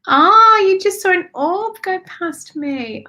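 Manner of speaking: high, loud startled "Oh"; real startled exclamation; sudden surprise. Real, not acted. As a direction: gasp at a sudden sight. Sees an orb pass.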